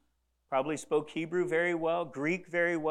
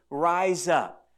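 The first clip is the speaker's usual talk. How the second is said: forceful call; 6 dB louder than usual. Acted. Quoting Jesus' command.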